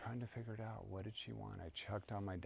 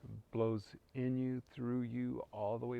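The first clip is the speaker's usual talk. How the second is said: swelling emphasis; 3 semitones higher, 7 dB louder than usual. Acted. Blowing prayer into yourself.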